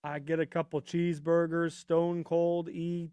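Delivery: Stone Cold line, very slow on the name; hint of Stone Cold, stretching out the name; mock Stone Cold drawing out his name; imitating Stone Cold. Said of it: "have you seen Stone Cold E T?".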